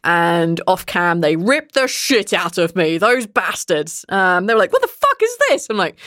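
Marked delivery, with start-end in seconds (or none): 4.7-5.7 very high, incredulous imitation; mock disbelief. Castmates ripping into her American accent, mock disbelief. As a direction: squeal it like an appalled friend.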